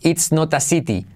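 It's not a city with hard t sounds; crisp t version. Shown as a demonstration. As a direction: say every t clearly. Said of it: "Mirad la diferencia".

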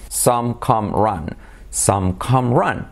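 SOME COME RUN slow and evenly spaced; steady chant of three "ah" words; repeat-after-me drill. Shown as a demonstration. Teacher leading repeat-after-me, measured. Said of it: "repite conmigo".

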